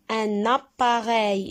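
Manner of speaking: Un appareil said slowly and clearly; slow model word. Shown as a demonstration. Teacher shows the word to pupils, slow and clear. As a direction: stretch out Un appareil. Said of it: "teacher models word".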